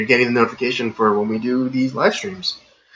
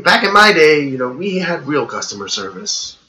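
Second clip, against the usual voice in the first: put-on old man; 4 semitones higher than usual. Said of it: "I'm gonna sound like an old man".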